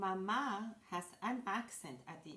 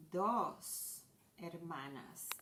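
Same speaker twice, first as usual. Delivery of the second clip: slow stressed plural; much slower than usual. Shown as a demonstration. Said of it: "so we're gonna say".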